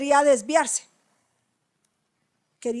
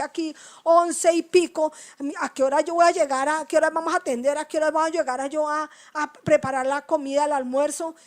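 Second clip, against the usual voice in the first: fast, louder, anxious questions; flustered retold complaint; 4 dB louder than usual. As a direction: rush it like a stressed worker late. Queja retenida, apurada. (quejándose al Señor, rápida y agobiada)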